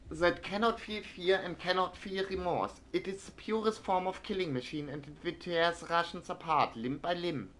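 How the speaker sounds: news read. Acted. Streamer reads a German newspaper like a newsreader. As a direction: read it like an old wartime newsreel. Reading in-game newspaper aloud.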